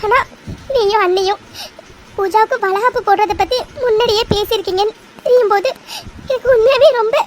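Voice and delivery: put-on mother-in-law crying with joy over the baby shower; tearful. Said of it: "எதுக்கு இப்ப நீ அழற".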